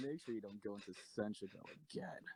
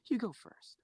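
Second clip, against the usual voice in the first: sharp order; 10 semitones higher, 7 dB louder than usual. Acted. Captor ordering prisoner.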